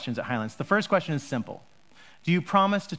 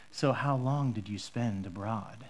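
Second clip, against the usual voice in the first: customs officer; 8 semitones lower, 8 dB quieter, slower than usual. Retold or imitated. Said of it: "They look at you in the eye and they say".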